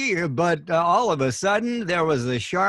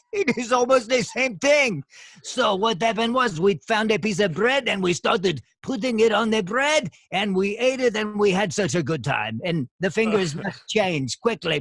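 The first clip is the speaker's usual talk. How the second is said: put-on French accent; 4 semitones higher than usual. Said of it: "I think you went back into the French".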